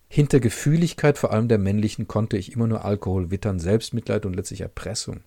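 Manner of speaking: calm literary reading, first person; story narration. A narrator's reading. Reader presenting a Markus Werner novel, measured narration. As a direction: read the novel's inner voice evenly. Rereads passage aloud.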